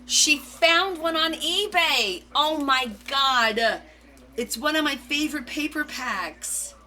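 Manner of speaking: slow, high amazed; drawn out in disbelief; stunned by the find. Real, not acted.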